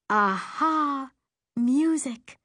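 high, drawn-out cry of discovery; eureka exclamation. Acted. Girl finding what the scene lacks, eureka. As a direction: exclaim as the idea dawns. Girl has a sudden idea.

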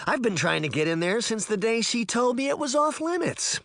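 put-on high-pitched, eager boy's voice; thrilled at the forbidden chance; excited outburst. A narrator's reading. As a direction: burst out with pent-up excitement. Amazed Puck, long barred from room.

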